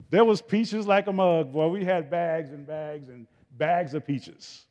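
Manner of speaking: loud, slow, high and proud; excited boasting. Real, not acted. Telling the congregation about the huge harvest, excited. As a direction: savor the abundance out loud.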